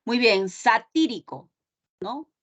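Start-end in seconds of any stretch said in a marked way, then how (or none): 0.5-1.5 satírico with stress on TÍ; teacher's demo of satírico stressed sa-TÍ-ri-co; antepenultimate stress. Shown as a demonstration. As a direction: punch the TÍ in satírico. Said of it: "Es una palabra esdrújula porque el acento va a".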